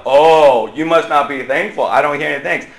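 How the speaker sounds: mock-disappointed scolding with a loud opening; guilt-tripping. Shown as a demonstration. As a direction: pile on the guilt. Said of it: "if I gave you a guilt trip".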